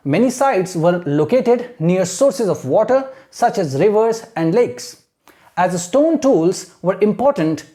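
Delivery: slow, measured read-aloud; model textbook reading. Shown as a demonstration. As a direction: read slowly phrase by phrase for students to copy. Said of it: "This is how you have to read". (धीरे-धीरे आदर्श पाठ-वाचन)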